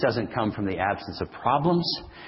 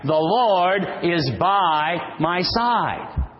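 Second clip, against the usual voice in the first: slow, emphatic declaration with Lord lifted higher; more enthusiasm; 5 semitones higher, much slower than usual. Shown as a demonstration. Preacher demonstrating a livelier response to the congregation, slow and emphatic. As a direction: declare it with conviction, dwelling on Lord. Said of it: "We need a little more enthusiasm".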